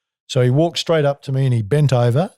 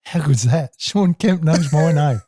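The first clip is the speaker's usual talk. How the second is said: still gleeful thought; 4 semitones higher, slower than usual. Retold or imitated. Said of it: "I'm still thinking".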